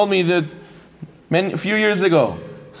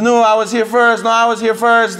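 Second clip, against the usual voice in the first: mildly heated, higher-pitched retold squabble; imitating a petty dispute; insistent arguing; 4 semitones higher than usual. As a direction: stake your claim, pitched up. Retold quarrel over parking spot.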